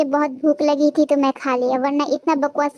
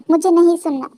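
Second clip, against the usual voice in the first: louder, cutting her off; loud refusal; 6 dB louder than usual. Acted. Refusing to listen.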